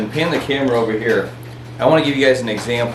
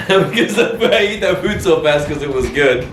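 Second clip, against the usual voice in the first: speaking with hiccups; hiccupping while talking; 3 semitones higher than usual. Real, not acted. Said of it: "I have the hiccups now".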